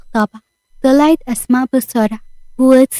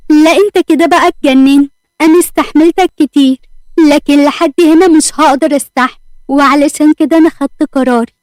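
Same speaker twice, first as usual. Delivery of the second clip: angry wife; 2 semitones higher, 3 dB louder than usual. Acted. Wife fighting husband over second wife.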